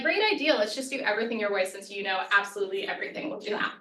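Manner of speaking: defensive sarcasm. Acted. Mock reply to a colleague who criticized the process, sarcastically defensive. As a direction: feign agreement, then rush through the jab. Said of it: "this is our defensive response".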